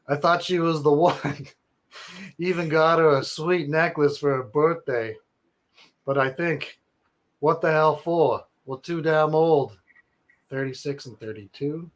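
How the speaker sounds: a hint of New York bro reading; New York accent. Reading Nick's email in a mild New York accent. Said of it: "wanna do a New York accent".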